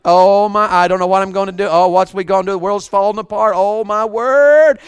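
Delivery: mock fretting, lightly acted; habitual worrier. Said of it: "they've been a worrier for so long".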